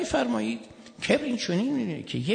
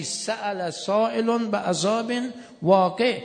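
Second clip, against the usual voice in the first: Quranic recitation; 3 semitones higher, slower than usual. Acted. Quran verse recited in sermon.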